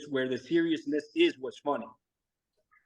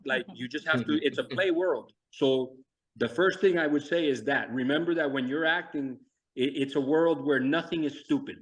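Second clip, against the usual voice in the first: ordinary delivery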